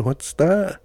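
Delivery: retold call to someone distant; questioning call. Repeats his question to boy.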